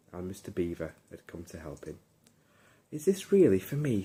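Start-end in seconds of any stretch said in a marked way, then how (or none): 2.9-4.0 higher and louder, delighted puppy voice; a pup who can't believe it's his; story puppy, higher and louder in happy wonder; amazed little puppy. Acted. Puppy sees his new kennel.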